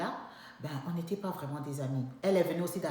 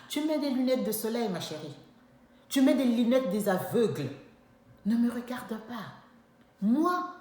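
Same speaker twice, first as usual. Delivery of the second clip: high, loud mocking commands; loud sarcastic retort; scornful orders; 7 semitones higher, 7 dB louder than usual. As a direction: throw it at her with scorn.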